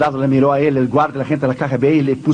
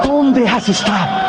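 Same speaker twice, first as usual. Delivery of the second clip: gruff shout; 5 semitones higher, slower than usual. Acted. Agent shouts at the pastor.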